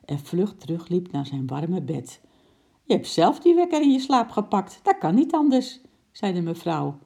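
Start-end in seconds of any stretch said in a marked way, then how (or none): 2.8-5.8 high, loud quarrelling wife; indignant, raised-pitch bickering; heated accusation. A narrator's reading. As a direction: throw the blame back, loudly. Acted quarrel, wife blames husband.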